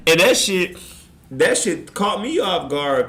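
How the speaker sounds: loud, high words through laughter; real laughter; laughing. Real, not acted. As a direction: talk while still cracking up. Still laughing at the story.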